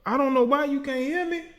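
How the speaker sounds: high-pitched baffled complaint; exasperated. Real, not acted. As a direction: protest in helpless bafflement. Exasperated at failed call connection.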